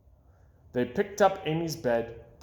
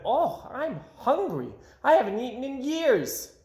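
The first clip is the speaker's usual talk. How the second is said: put-on little girl voice; 11 semitones higher than usual. A narrator's reading. Amy waking hungry.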